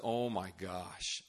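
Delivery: slow, low, soft disbelief; sinking dismay. Retold or imitated. Student seeing lavish gifts, quietly appalled. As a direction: let it sink out slowly.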